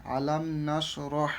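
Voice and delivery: রহ with a throaty ha. Shown as a demonstration. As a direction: push the ha of রহ from the throat. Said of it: "গলায় উচ্চারণ নিতে হবে".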